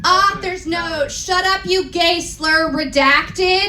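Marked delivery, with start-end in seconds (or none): 1.1-3.7 mock angry rant. Author snapping at readers in note, hammed-up rant. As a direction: read the note like an angry teen writer.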